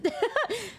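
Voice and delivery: light high laugh at herself; a short embarrassed giggle; amused laugh. Real, not acted.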